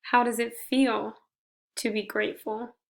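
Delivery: gentle meditation guide with long pauses between phrases; guided meditation. Shown as a demonstration. Leading listeners in reflecting on gratitude, guided meditation. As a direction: guide them through breathing, slightly softened, unhurried pauses.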